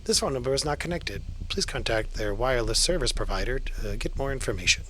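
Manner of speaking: recorded phone message voice; brisk automated carrier announcement. Shown as a demonstration. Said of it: "like, automated voice that comes up".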